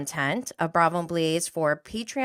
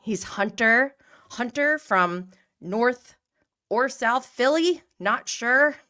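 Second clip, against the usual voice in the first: lightly imitated put-on American accent, pitched up; playful, higher and louder mock-American accent; James Kennedy; 5 semitones higher, 4 dB louder than usual. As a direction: mimic a Brit faking an American accent. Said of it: "when he does his American accent".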